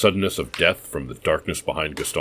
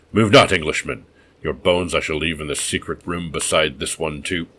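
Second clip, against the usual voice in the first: bitter mad host turning to menace; brooding madman. Acted. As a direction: rant of a wolf-minded maniac.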